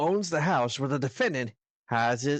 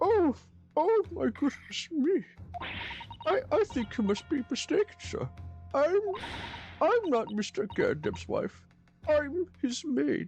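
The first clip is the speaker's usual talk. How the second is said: very high, slow, drawn-out put-on woman's voice; 12 semitones higher than usual. Voicing a maid in a role-play, correcting a mistaken man: put-on woman's voice. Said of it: "I did her voice, so I had to recalibrate my voice for this".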